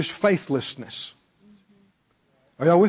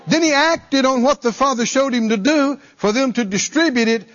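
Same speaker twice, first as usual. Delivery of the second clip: normal talking voice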